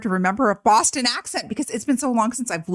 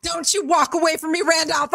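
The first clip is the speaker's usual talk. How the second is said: raised, higher call after him; yelling after someone; 6 semitones higher than usual. Acted. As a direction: shout him back, stern. Mother yells after leaving son.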